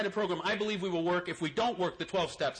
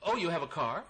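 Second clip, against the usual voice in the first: voicing God; 3 semitones higher than usual. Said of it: "And God goes".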